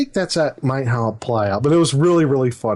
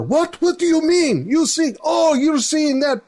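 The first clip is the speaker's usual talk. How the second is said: much higher, squawking outraged father; father reacts to daughter's confession, much higher and outraged; indignant father; 14 semitones higher than usual. Retold or imitated. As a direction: play the father, shocked and scandalised. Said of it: "So I acted like the father".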